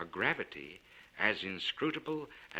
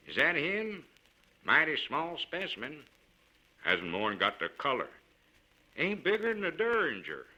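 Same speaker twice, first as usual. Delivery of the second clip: loud, higher, rough miners sneering; mock the tiny baby like gruff camp men; critical miners' comments; 5 semitones higher, 5 dB louder than usual. A narrator's reading. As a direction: miners filing past the baby, scoffing loudly. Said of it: "comments were audible, criticisms".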